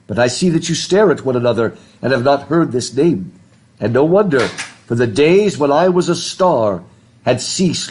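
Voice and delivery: unhurried storybook read-aloud; story reading. A narrator's reading. Teacher reading Narnia dialogue aloud to students. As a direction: read the Narnia scene to the class.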